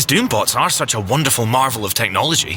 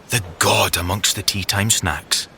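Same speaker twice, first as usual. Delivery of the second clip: ordinary talk, nothing marked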